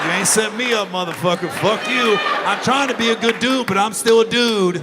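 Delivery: mock shout. Shouting at agency in head.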